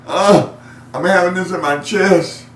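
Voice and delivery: worried call. Retold or imitated. Patient telling his care provider about chest pain, anxious. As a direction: sound scared on the phone. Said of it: "calling his care provider".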